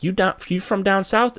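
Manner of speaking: high-pitched mock cop question; probing cop. Cop probes where the driver is from, mock suspicion.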